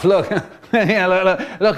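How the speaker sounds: high, giggling outburst; giggly, broken-up words; laughing. Acted. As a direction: laugh helplessly through the words. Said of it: "He starts to laugh".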